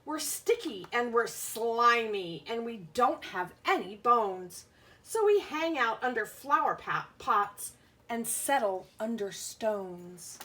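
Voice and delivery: a hint of a proud snail, lilting storybook read; lightly voiced snail. Teacher reads the snail's lines to her class, lightly voiced. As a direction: play the snail, bouncy and friendly. Bug speaks in book.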